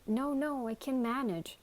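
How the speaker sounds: scared. A narrator's reading. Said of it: "sounding scared".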